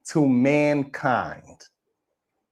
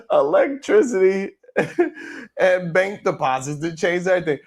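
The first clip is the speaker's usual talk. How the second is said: laughing repeat; 3 semitones higher than usual. Real, not acted. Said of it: "repeated laughing".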